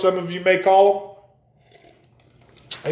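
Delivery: words around a sip of a drink; talking mid-sip; drinking while talking. Real, not acted. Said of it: "Excuse me, I'm drinking".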